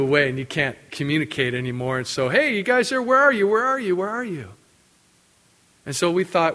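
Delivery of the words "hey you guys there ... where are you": high, raised calling over the radio; anxious repeated calling. Retold or imitated. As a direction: call out searching for lost friends.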